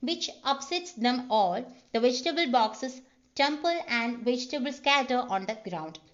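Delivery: reads each word out slowly, like a dictation; slow script reading. Shown as a demonstration. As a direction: spell out the scene calmly for the class. Reading screenplay aloud slowly.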